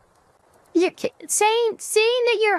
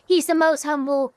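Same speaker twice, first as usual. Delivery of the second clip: boastful politician impression, slightly lowered; Donald Trump; 2 semitones lower than usual. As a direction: brag in a level, run-on Trump cadence. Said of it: "it's my best Trump impression".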